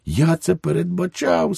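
high-pitched, artless remark; guileless Švejk. A narrator's reading. Švejk answers the policeman about the war manifesto, guileless.

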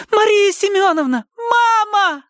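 high loud urgent blurt. Acted. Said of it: "выпалила она".

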